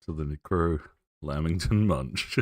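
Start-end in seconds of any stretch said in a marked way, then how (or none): 1.2-2.4 dramatic reveal. Acted. Grand reveal of new character.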